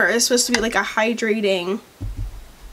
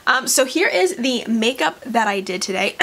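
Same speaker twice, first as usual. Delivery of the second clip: rough morning voice, just woke up. Real, not acted. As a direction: talk through a groggy morning voice. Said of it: "still morning voice".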